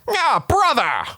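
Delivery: high, drawn-out villain cry; mock dramatic call, stretching each word; Liquid Snake. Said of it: "he sounds just kind of like".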